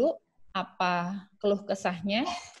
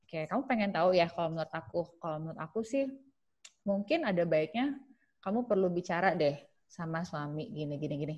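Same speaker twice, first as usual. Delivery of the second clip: gentle soft advice; 3 semitones lower, 6 dB quieter than usual. Shown as a demonstration. Listener gently giving view.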